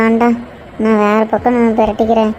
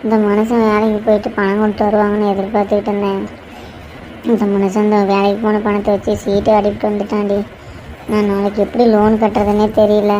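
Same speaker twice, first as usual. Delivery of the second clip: subdued, tearful confiding; mildly weepy, worn-down complaint. Acted. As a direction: tell your troubles with a touch of tears. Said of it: "இப்பயே அழுதுகிட்டு இருக்கிற".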